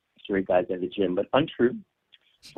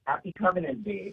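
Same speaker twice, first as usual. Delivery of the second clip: over an electric razor; 5 semitones higher than usual. Real, not acted. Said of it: "this sounds like a long-distance call".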